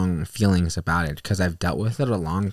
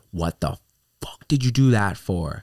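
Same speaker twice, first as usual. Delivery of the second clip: imitating the angry driver; 3 semitones higher than usual. The driver getting out of his car, mock angry. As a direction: do the driver's aggressive comeback. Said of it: "he was like".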